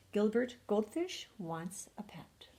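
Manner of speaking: soft, hushed storybook title; gentle bedtime title; hushed title read. A narrator's reading. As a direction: announce the title softly, like a secret. Reads the title.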